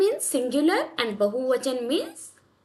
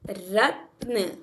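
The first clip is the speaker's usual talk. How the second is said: रत्न drawn out very slowly; slow blended word; 4 semitones lower, much slower than usual. Shown as a demonstration. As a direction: stretch रत्न out for the class. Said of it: "तो क्या आ जाएगा?". (धीरे-धीरे खींचकर बोलना)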